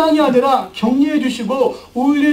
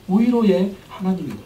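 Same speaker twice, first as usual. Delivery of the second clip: usual speaking voice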